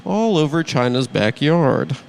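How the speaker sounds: measured satirical news read; mock news monologue. Host opens the show with the day's news, mock anchor read.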